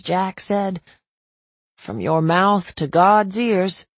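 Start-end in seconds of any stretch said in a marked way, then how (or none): 1.8-3.9 wry groom. Acted. Jack's wry slow reply.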